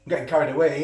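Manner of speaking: talking with mouth full; messy loud eating. Real, not acted. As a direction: chew and talk at once. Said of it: "You're talking with my mouth full".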